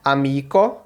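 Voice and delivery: "Amico" as a-MI-ko, rising at the end; teacher modelling "Amico"; careful Esperanto word. Shown as a demonstration. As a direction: say "Amico" clearly, each syllable crisp. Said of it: "Eu vou só pronunciar cada uma".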